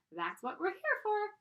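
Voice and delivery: high, slow tiny voice; pigtail voice. Acted. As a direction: sweetly persuade like a pigtail.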